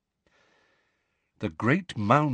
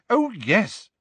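much higher, louder, mocking; hysterical sarcasm; 13 semitones higher, 4 dB louder, slower than usual. A narrator's reading. Hermione mocking the word tiny, hysterically sarcastic. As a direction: fling the word back in shrill sarcasm. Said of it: "with a kind of hysterical sarcasm".

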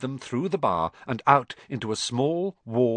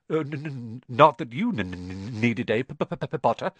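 halting nervous stutter; stammering. Acted. Quirrell to Harry, anxious stammer. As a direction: trip on every word.

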